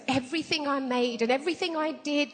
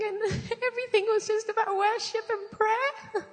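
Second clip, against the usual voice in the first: amused laugh; 7 semitones higher than usual. Real, not acted. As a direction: let the irony crack you up. Laughs at the irony.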